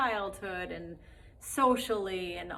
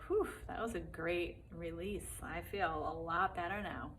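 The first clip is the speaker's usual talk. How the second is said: soft relief after release; relieved; 6 dB quieter than usual. Acted. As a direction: let it out softly, relieved. Voicing relief after crying.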